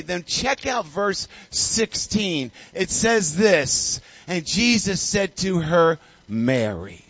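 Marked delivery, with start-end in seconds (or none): 4.3-7.0 reading Mary. Shown as a demonstration. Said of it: "Can you say, "Mary"?".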